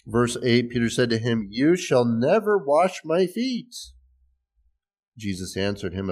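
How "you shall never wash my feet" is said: slow, higher-pitched refusal reading YOU SHALL NEVER firmly; emphatic refusal. Acted. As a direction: read Peter's refusal with rising force on NEVER. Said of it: "maybe say it's even more emphatic".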